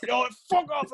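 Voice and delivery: high-pitched, wailing protest; hammed-up helpless telling-off; retold distressed yell. Retold yell at friend filming.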